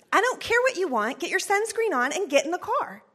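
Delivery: mock-stern mother giving orders; mom authoritative voice. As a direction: tell the kid flatly no arguing. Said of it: "in my particular mom authoritative voice".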